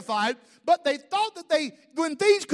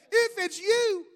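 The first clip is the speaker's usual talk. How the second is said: high, drawn-out call over distance; raised-pitch shout in Peter's role, not full volume; acted yell back; 8 semitones higher than usual. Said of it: "Peter yells back at him".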